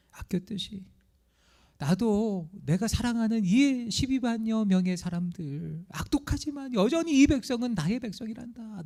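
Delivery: acted gentle, heartfelt reasoning; tender divine appeal. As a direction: plead like a patient father, drawing words out. Voices God pleading gently with Jonah.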